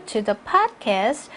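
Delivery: slow rise on "podcast", then a break; measured phrase, stopping after "podcast"; phrased with pause. Shown as a demonstration. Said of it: "전치사구 앞에서 또 쉬시고요". ("podcast" 뒤에서 쉬기)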